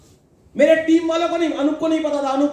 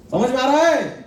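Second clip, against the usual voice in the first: asking through a chuckle; asked with a light laugh; laughing check-in. Real, not acted. Boss checks his team gets it, with a laugh. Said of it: "asks team twice".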